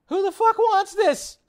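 high, loud disgusted yell; disgusted shout. Real, not acted. Vlogger reacting to peta jacket with a loud disgusted yell. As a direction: cry out in disbelief. Disgusted at human leather shop.

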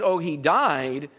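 dismissive shrug. Retold or imitated. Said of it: "The message of the cross is not just".

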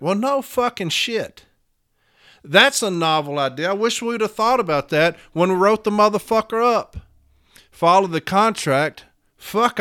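loud mock amazement; scornful, emphatic fake praise; heated sarcasm. Real, not acted. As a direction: feign astonishment at a stupidly obvious idea. Mocking the negotiators' obvious remedy.

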